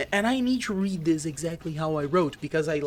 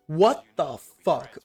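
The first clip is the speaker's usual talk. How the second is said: slow, louder drawn-out curse; dazed disbelief; 5 dB louder, slower than usual. Retold or imitated. Gamer recalling standing there in shock, slow and louder. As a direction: let it hang in stunned confusion. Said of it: "me standing there saying".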